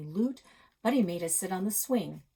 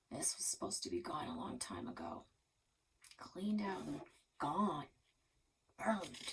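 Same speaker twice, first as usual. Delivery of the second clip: whisper; 7 dB quieter than usual. Acted. Old neighbour stares at the money and whispers it to himself. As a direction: breathe it out, drifting into the past. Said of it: "He whispered".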